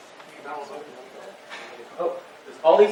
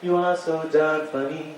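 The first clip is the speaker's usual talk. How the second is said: soft echo; 2 semitones higher, 6 dB quieter, slower than usual. Acted. Comedian echoes his own chorus, softly. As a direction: sing it back quietly.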